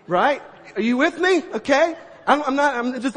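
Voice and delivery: stammering in leftover shock; flustered. Retold or imitated. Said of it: "I'm just like".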